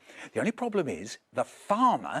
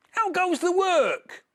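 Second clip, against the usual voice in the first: farmer calling; 5 dB louder than usual. Acted. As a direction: bellow it down like a lazy farmer. Farmer calls again.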